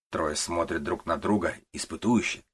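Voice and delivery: ordinary delivery, nothing marked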